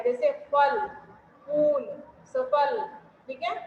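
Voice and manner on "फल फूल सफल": फल, फूल, सफल with lips pressed together, aspirated ph; slow, lips closing on each ph; ph sound. Shown as a demonstration. Teacher contrasting the Hindi ph with the f. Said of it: "होंठ आपस में मिल जाते हैं".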